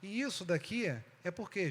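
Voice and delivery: ordinary talk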